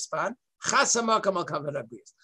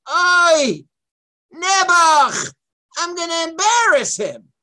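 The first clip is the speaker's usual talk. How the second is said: pitying worry; 8 semitones higher, 8 dB louder than usual. Retold or imitated. God worried about embarrassing Bilam.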